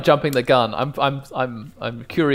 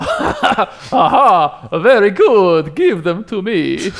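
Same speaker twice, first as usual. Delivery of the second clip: high, louder gloating king; gleeful king; 7 semitones higher, 7 dB louder, much slower than usual. Acted. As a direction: gloat over the taxes. King greedy for taxes.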